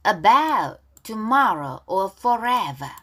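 deliberate read-along with pauses; pronunciation model. Shown as a demonstration. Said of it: "발음 따라하기".

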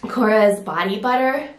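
a little winded, breathy pauses; out of breath. Real, not acted. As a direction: talk slightly short of breath. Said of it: "I'm a little winded too".

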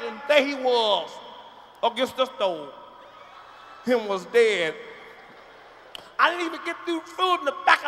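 hammering the tale home; loud retelling. Acted. Relative retells the story louder.

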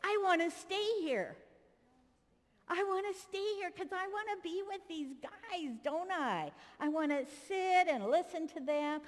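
put-on feed the boy his eager line; Peter's lines for the child. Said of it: "and you say".

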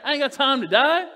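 loud preacher's defiant cry; bold defiance. Acted. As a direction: proclaim it like Paul shrugging off death. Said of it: "That was Paul".

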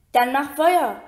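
Harry groans out an idea, bound tight; groaning. Acted. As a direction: push it out through the strain. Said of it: "ächzte Harry".

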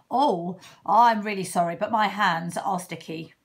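loud sorry badger. Badger apologizes loudly.

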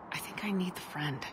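hushed and gentle let-down. Acted. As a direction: whisper it kindly, let him down easy. Gently turning down Garrus.

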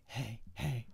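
hushed whisper on the phone. Retold or imitated. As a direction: whisper so mom won't hear. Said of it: "You were whispering".

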